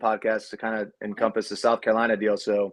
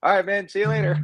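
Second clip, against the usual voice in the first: awkward polite reply; 9 semitones higher than usual. Retold or imitated. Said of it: "I was like".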